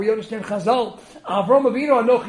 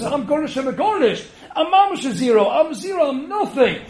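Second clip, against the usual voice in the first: mock humble boast; 5 semitones higher than usual. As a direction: play the rich man showing off his humility. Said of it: "This one says".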